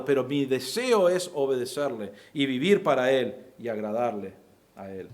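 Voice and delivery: sincere believer. Retold or imitated. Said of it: "Su hábito se encuentra en".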